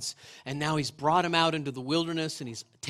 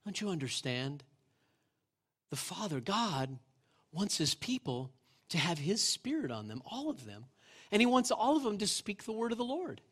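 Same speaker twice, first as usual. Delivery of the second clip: softer, gentle answer, falling almost to a hush; tender explanation; 3 semitones higher, 4 dB quieter than usual. Retold or imitated. Moses gently answering his worried assistant, soft and tender. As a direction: ease them into it kindly as a patient leader.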